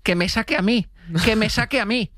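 rising insistence on the repeat, mildly hammed-up; eager volunteer. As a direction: act an audience member wanting to be picked. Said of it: "de pronto tiene un deseo".

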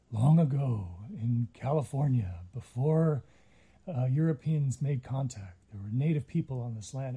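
low, dramatic trailer narrator; movie trailer voice. Retold or imitated. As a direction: intone it like an epic film announcer. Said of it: "movie trailer voice and was like".

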